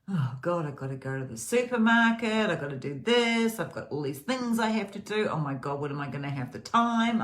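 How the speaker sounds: a hammed-up panicky morning voice; mock frazzled morning. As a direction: act harried and overwhelmed by chores.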